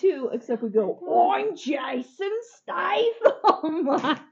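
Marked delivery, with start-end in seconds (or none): 1.3-4.2 slow, drawn-out celebrity impression; Jason Statham. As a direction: stretch each word in a put-on action-star voice. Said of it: "impersonate all the time".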